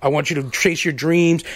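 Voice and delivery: lightly voiced heartfelt Mike; a hint of Mike loving the boys; Mike impression. Co-host imitates Mike encouraging the crew, mildly heartfelt. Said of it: "my impression of Mike".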